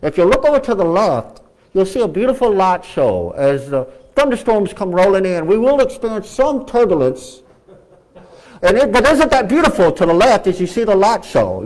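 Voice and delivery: a hint of a calm captain announcement; mild captain-on-the-intercom imitation; lightly voiced pilot. Preacher imitating plane captain to passengers, lightly voiced. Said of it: "this is your captain speaking".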